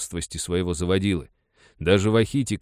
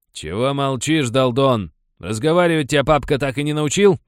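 loud, high insulting jeer; bully goading the silent boy; taunting; 7 semitones higher, 7 dB louder than usual. A narrator's reading. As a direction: goad him to speak.

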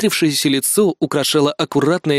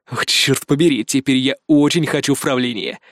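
usual speaking voice

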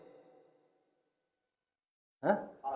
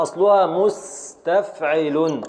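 slow scansion; much slower than usual. Shown as a demonstration.

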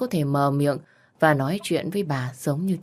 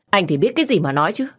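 irritated snap; 3 semitones higher, 5 dB louder, faster than usual. Acted. Mother snaps at Hoàng.

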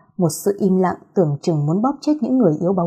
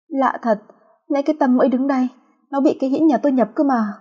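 bewildered; 6 semitones higher than usual. Acted. Ngơ ngác khẳng định.

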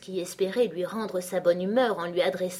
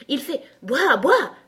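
high, loud little bark; daisy crying out; 8 semitones higher, 9 dB louder, slower than usual. A narrator's reading. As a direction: cry it out high, like barking. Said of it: "s'écria une pâquerette". (cri aigu de pâquerette qui aboie)

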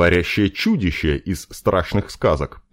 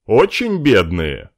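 slow, sceptical and louder; mocking question; 3 semitones higher, 4 dB louder than usual. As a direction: drawl it with scorn. Nobleman asks mockingly. (насмешливо, недоверчиво)

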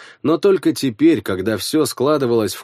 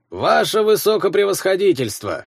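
put-on grating old voice; 8 semitones higher than usual. A narrator's reading. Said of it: "проскрежетала".

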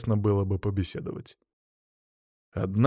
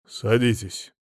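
gloomy order; slower than usual. Acted. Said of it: "хмуро сказал".

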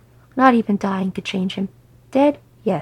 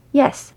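"Yes" punched higher and louder; a firm, forceful "Yes"; emphatic; 5 semitones higher, 5 dB louder than usual. A narrator's reading. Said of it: "Beefwood said emphatically".

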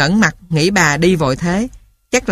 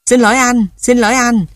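rapid bird chatter; 5 semitones higher than usual. Acted. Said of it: "Dẫu mỏ lia lịa".

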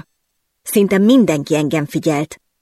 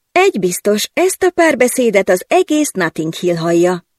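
a touch of stunned disbelief; mildly flustered gasp of dismay; aghast; 3 semitones higher than usual. Acted. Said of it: "hüledeztem". (enyhén hüledezve)

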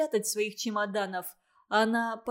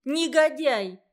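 loud, high shout of outrage; furious girl shouting at the offender; angry cry; 4 semitones higher, 7 dB louder, slower than usual. A narrator's reading. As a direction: hurl it at him, higher and louder. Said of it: "закричала она".

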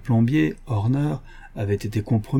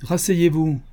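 a curt, stern order; sternly; 5 semitones higher, slower than usual. Acted. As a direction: command him back into the chair. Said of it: "dit Holmes sévèrement".

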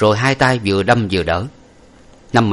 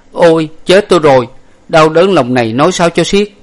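much higher, louder wailing outcry; anguished cry; 7 semitones higher, 6 dB louder than usual. A narrator's reading. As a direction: cry out in shock and grief. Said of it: "giật mình la lớn lên". (la lớn đau đớn, cao và to)

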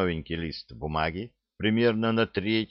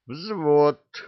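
command shout; 7 semitones higher, 5 dB louder than usual. A narrator's reading. Officer calls platoon to attention.

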